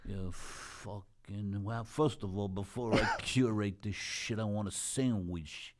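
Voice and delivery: a light impression of a swaggering comic, drawn out; slow, lightly put-on tough-guy comic voice; Andrew Dice Clay. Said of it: "Andrew Dice Clay would be".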